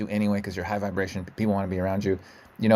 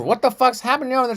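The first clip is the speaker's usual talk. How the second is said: loud neighbour; 12 semitones higher, 5 dB louder than usual. Retold or imitated. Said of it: "I'm just like".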